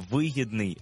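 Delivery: вигідний with ВИ stressed; stress on first syllable. Shown as a demonstration. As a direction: put the beat on ВИ in Вигідний. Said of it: "замість вигідного".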